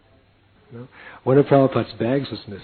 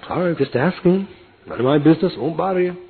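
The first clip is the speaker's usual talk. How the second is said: higher, huffy backing-off; a cabbie taking offence, retreating; offended cabbie; 5 semitones higher than usual. Retold or imitated. Driver backing off.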